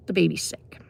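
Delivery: breathy hushed whisper of grim news; retold whisper. Teen brother telling teacher the baby is sick, hushed whisper. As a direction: whisper it like breaking bad news gently.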